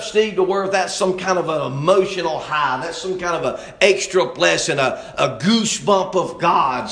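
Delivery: driving Southern preacher cadence; fervent preaching. Real, not acted. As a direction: preach it hard, hammering the key words. Preaching at full force.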